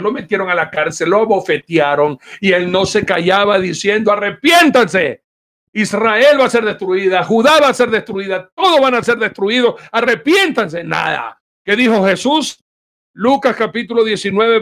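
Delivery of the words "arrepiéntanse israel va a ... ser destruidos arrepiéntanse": prophet's cry. Retold or imitated. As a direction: cry out like a prophet warning a nation. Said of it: "con voz en cuello".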